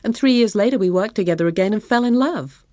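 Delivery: happy sigh. A narrator's reading. Wife recalling how they fell in love, happy sigh. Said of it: "She sighed happily".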